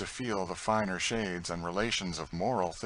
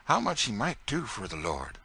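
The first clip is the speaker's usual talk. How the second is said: higher, louder humble servant voice; Tom's earnest voice; 4 semitones higher, 4 dB louder than usual. Acted. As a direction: explain humbly but with conviction. Tom explains God's work.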